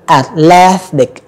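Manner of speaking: "athletic" slow, with an airy TH; voiceless TH. Shown as a demonstration. Teacher giving a TH example word, slow and voiceless TH. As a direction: draw out "athletic", only breath on TH. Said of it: "không có rung dây thanh quản".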